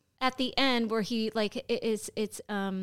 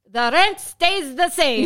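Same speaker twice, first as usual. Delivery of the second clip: slow, louder, put-on voice; mock gruff landlord; 5 semitones higher, 7 dB louder, slower than usual. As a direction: lay down the law. Quoting the landlord.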